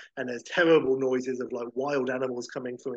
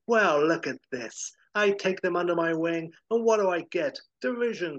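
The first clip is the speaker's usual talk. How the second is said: high, louder bitter rant; indignant Howard; 4 semitones higher, 4 dB louder than usual. Retold or imitated. Howard, scorned by his old band, in a high, louder indignant rant. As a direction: spit out the grievance, rising on each insult. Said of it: "And Howard's like".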